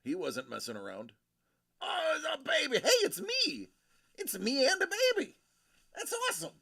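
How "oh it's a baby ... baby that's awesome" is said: put-on high, bright baby-talk voice; sing-song hello to a baby; baby talk greeting.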